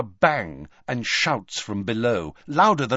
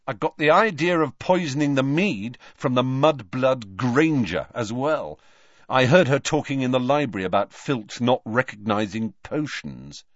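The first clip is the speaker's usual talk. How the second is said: tense defiant schoolboy; lightly voiced nervous Draco; a hint of shaky bravado; young Malfoy; 3 semitones higher than usual. Malfoy boasting.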